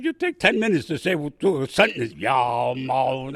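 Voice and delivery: imitating Southern drawl. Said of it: "everything was a moan".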